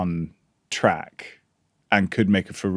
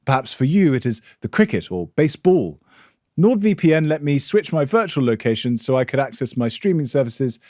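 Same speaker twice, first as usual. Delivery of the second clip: polished, upbeat sponsor read; 2 semitones higher than usual. Acted. Host reading the VPN sponsor spot to listeners, smooth ad voice. Reads a NordVPN ad.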